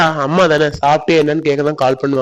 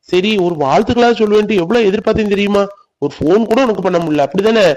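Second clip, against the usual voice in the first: higher, aggrieved reproach; mild sulky anger at his girlfriend; hurt complaint; 3 semitones higher than usual. Acted. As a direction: boyfriend scolding girlfriend for never calling, aggrieved. Lover's quarrel over phone.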